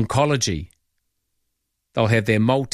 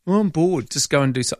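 put-on bored child; 4 semitones higher than usual. Host mimicking a bored child to the caller, mild whine. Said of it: "get off your phones".

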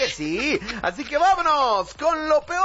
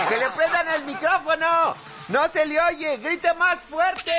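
heckler's yell; 7 semitones higher than usual. Acted. Audience member telling the official to speak up, yelling. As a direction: holler demands from the back. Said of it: "Y todavía alguien grita".

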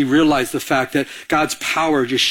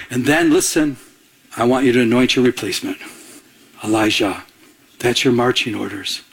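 still small voice; 3 semitones lower than usual. Acted. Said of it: "told by God in a still, small voice".

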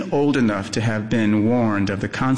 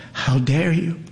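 snarling; 7 semitones higher than usual. A narrator's reading. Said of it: "She snarls".

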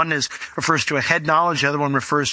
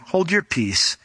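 measured rebuke, dropping low at the end; firm rebuke; 6 semitones lower than usual. A narrator's reading. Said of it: "And Jesus rebuked him".

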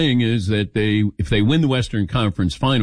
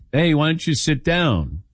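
retold invitation; 5 semitones higher than usual. Voices Patrick inviting John.

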